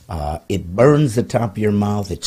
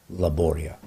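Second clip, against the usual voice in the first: lower, softer, as if naming a dark land; mock ominous; 6 semitones lower, 6 dB quieter than usual. Host to co-host, dubbing long intros laboria, lightly mock ominous. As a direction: announce laboria like a spooky place.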